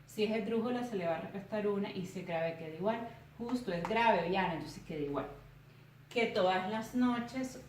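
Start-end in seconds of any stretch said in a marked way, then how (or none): 6.1-7.6 "Que todas las noches" slow and measured, syllable by syllable; slow, careful syllables on "Que todas las noches". Shown as a demonstration. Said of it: "comienzo a separar en sílabas".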